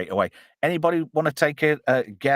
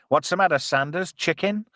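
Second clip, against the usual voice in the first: quoting a movie line; 6 semitones higher than usual. Retold or imitated. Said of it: "I love that line from Spaceballs".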